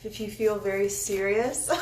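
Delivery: tripping over the words; stuttering. Real, not acted. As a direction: stumble on the start. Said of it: "I keep stuttering".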